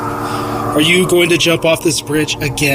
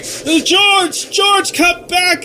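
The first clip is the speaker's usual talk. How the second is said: raised, higher call after someone running off; an angel's alarmed call after George; 10 semitones higher, much slower than usual. Acted. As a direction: shout for him to come back. Clarence calls after running George.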